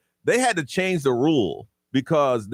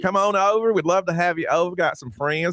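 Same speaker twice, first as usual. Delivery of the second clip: put-on Southern accent. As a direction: invite them over with Southern hospitality. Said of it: "the Southern accent".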